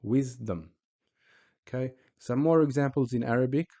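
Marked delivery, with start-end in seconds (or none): 0.0-0.7 "Wisdom" split after wis, ending on M; stop on S and M. Shown as a demonstration. Teacher showing both sukoons, split syllables. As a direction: close "Wisdom" on the M with no vowel. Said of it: "And on the mim".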